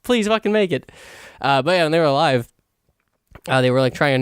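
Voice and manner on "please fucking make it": higher-pitched, hopeful plea; will them on like a proud parent; emotional pleading. Retold or imitated. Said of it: "this weird, like, emotional".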